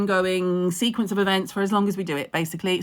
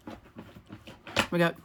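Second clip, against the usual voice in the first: whispered; 7 dB quieter, much slower than usual. Real, not acted. Finds product, whispered aside.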